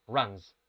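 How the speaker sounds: runs ending in a buzzing Z; Z sound. Shown as a demonstration. Teacher showing the class runs with a Z sound. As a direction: say runs with a voiced Z at the end. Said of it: "la N es una consonante sonora".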